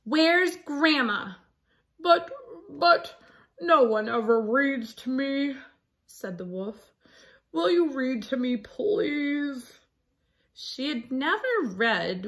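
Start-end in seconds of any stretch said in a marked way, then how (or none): 0.0-1.3 slower, pointed repeat of the question; sterner demand. Acted. Red refusing the wolf's lie, slower sterner demand. 2.0-9.8 a touch higher, pleading wolf voice. Acted. Wolf asking Red to read, gentle pleading.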